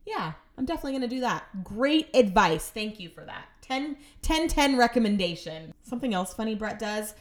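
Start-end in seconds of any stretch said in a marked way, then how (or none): 0.0-5.7 mock-grateful sarcasm; dripping, insincere thanks; sarcastic. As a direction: pile on fake praise. Sarcastic reply to absurd advice.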